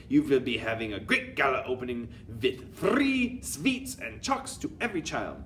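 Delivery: commanding witch with a put-on accent; Grand High Witch. Grand High Witch addressing her witches, commanding put-on accent. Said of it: "cried out".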